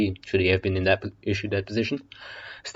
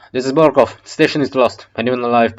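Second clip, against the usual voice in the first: grim radio broadcast; 3 semitones higher, 7 dB louder than usual. Acted. Barkov broadcasts evacuation.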